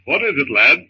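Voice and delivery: lightly voiced fond father, chuckling. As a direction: tease the baby gently. John talks to baby.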